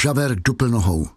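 ordinary delivery, nothing marked

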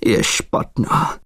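slow, hushed horrified whisper; slow dread-filled whisper. Acted. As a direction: breathe it out in dread, slowly. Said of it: "řekl si pan Michl s hrůzou".

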